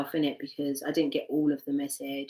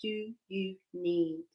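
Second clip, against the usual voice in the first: soft asking; 7 dB quieter than usual. Shown as a demonstration. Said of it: "ask your heart".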